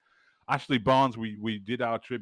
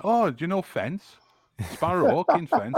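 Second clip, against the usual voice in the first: excited; 10 semitones higher, 7 dB louder than usual. Retold or imitated. Bar lady's excited question retold.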